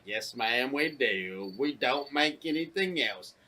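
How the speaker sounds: mock meek crewman. Quoting the crew man to mom.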